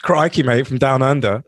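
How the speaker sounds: hammed-up Australian accent with laughs; mock Australian. As journalist Matt Doran, a laughing mock Aussie excuse. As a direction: play a sheepish Aussie reporter, laughing. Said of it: "in the shoes of Matt Doran".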